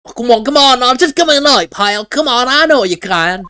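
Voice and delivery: eager urging. Acted. Voicing Gumshoe at the radio.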